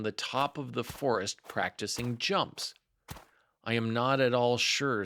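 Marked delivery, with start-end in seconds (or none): 3.6-5.0 thoughtful. Acted. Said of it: "in a thoughtful voice".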